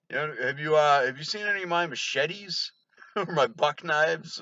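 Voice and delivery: mock outback bravado breaking into laughter; laughing Crocodile Dundee mimic. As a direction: tease the wannabe tough guy. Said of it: "like fucking, Crocodile Dundee".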